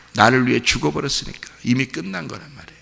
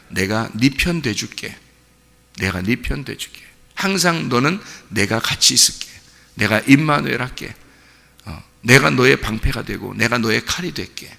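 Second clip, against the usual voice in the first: gentle voice of God. Acted. God voiced tenderly promising. (부드럽고 다정한 하나님의 음성)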